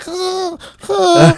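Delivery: high breathy wheezing gasps; mock high-pitched wheeze; imitated wheeze. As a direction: mimic a choked fat guy wheezing. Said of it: "That was a noise".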